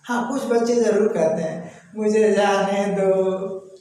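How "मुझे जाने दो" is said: put-on a child's polite, slow request; gentle pleading request. Shown as a demonstration. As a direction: ask politely to be let go, drawn out. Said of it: "ऐसे".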